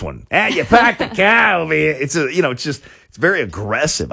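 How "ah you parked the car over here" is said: put-on high, loud, laughing Australian accent; rough Australian accent, half laughing. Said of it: "And it's a rough accent".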